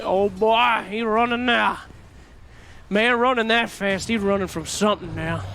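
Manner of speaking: Southern drawl. Acted. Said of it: "I want that southern drawl".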